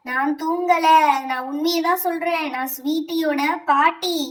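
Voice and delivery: insistent possessing spirit; lightly eerie grandmother ghost voice; grandmother's ghost. Acted. Grandmother's spirit insisting to teacher who she is, ghostly voice. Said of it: "அவங்க பாட்டியோட பேய் பிடிச்சுக்கிறோம்".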